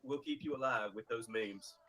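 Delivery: quiet solemn. Acted. Eulogy-style mock speech.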